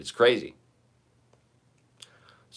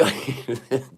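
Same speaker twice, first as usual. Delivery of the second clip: drawn out; 3 semitones higher, 4 dB quieter than usual. Shown as a demonstration. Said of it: "depressive, realistic, uh, GoFundMe pitch".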